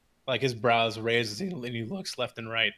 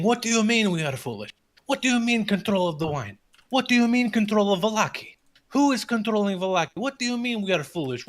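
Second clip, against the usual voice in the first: angry crowd; 9 semitones higher than usual. Acted. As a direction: hammer questions in growing outrage. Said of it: "the crowd is getting incredibly angry".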